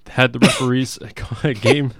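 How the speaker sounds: booming arena announcer, breaking into a laugh. Pretend. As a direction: call it out over the arena PA. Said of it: "I can't do this in that voice".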